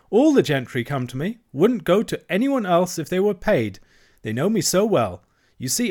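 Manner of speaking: high, chattering washerwoman voice; Toad as washerwoman. A narrator's reading. Toad playing a washerwoman to the barge woman, high and fussy. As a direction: pile on the hard-luck tale, pitched high.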